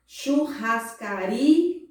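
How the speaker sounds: "churrascaria" very slowly as chur-ras-ca-RI-a; syllable by syllable. Shown as a demonstration. Teacher gives paroxytone example, syllable by syllable. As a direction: stretch "churrascaria" by syllables, loudest on ri. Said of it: "vamos para os exemplos de paroxítona".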